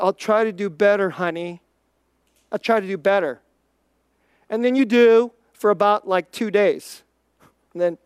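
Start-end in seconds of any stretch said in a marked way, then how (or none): 0.0-3.4 low, subdued imitation of a promising husband; placating husband. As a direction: lightly mimic a husband placating his wife. Husband voiced promising wife to improve.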